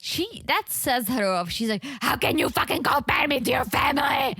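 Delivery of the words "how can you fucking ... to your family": a hint of a furious outburst, higher; lightly voiced angry girlfriend; imitating Jasmine's rage; mock angry Jasmine.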